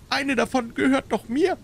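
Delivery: hohe, klägliche Stimme; Wimmern. A narrator's reading. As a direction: kleinlaut wimmernd widersprechen. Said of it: "wimmerte der kleine Mann". (jämmerliches Männlein)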